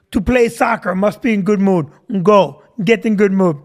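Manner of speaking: mock Russian coach giving a blunt order. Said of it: "He's just Russian".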